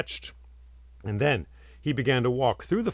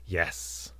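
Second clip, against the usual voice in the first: silent nod yes; 7 semitones lower, 7 dB quieter than usual. A narrator's reading. Statue's nod voiced as yes.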